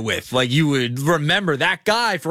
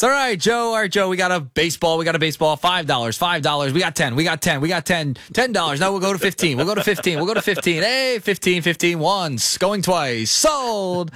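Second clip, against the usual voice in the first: auctioneer. Pretend. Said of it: "in auctioneer style".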